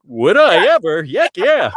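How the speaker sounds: thrilled, loud and high; excited. Retold or imitated. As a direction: burst out with eager joy. Excited inner thought retold.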